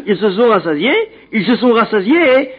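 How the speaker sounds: amused, half-laughing retelling; chuckling. Real, not acted. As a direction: laugh through the repeated phrase, rising a little. Amused repeating the verse's point.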